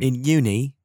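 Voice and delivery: mock British student slang; playful British accent. Guest teasing host with British slang, mock British accent.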